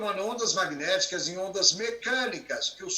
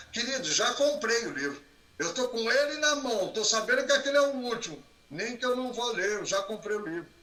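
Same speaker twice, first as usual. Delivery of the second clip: higher-pitched, insistent acted reply; pitched-up mock protest; amused retort; 5 semitones higher than usual. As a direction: play a customer protesting he already bought it. Seller's pitch answered in acted scene.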